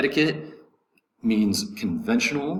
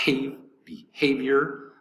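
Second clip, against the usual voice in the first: "behavior" with the middle syllable HAVE drawn out and higher; stress on second syllable; 4 semitones higher, slower than usual. Shown as a demonstration. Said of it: "accent is gonna be over the second syllable".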